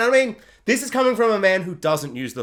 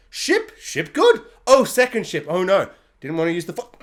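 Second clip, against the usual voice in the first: dim, confused Vader. Retold or imitated. Voicing confused Vader mockingly.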